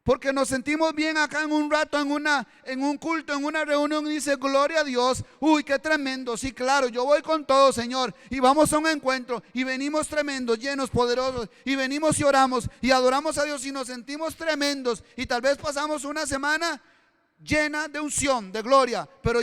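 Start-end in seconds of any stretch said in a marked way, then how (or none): 4.4-15.0 raised, eager voice, all fired up; excited boast. Retold or imitated. Preacher imitating a believer bragging after church, excited and raised. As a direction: gush like a churchgoer on a spiritual high.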